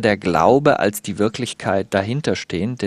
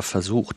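"versucht" as a deliberate, measured caveat; stress on versucht; 2 semitones lower, 6 dB quieter than usual. Real, not acted. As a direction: underline "versucht" without raising the voice. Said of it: "ich betone aber".

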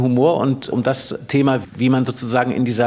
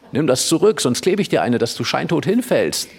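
indignant threat; 3 semitones higher than usual. Acted. Emil threatens the mocking boy.

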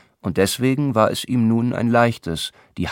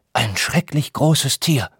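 higher, slow hammed-up fright; mock terror; 6 semitones higher than usual. Herr August plays the frightened god for his listeners, hammed-up terror. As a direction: act out horror at a monster. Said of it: "Sein Mund verzog sich voller Schrecken".

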